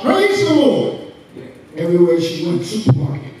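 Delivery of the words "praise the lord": high, drawn-out praise cry; imitated shout. Old woman praising God everywhere she goes, imitated shout. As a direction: proclaim it high, imitating a fervent believer. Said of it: "She'd always shout".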